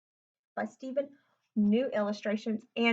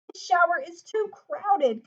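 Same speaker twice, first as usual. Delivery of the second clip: slow, higher mild grumble; complaining father; 6 semitones higher, 5 dB louder, slower than usual. A narrator's reading. Father grumbling about the tadpole, mild complaint. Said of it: "complained Lewis's father".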